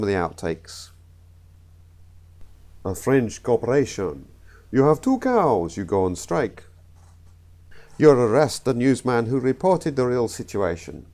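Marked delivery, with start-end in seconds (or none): 2.8-6.6 put-on failed comic French accent. Comedian's outtake of the French corporation, bad French accent. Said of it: "I cannot do a French accent". 8.0-11.1 put-on botched accent sliding into Russian. Comedian fluffing a joke take, accidental Russian accent. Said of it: "The Russian".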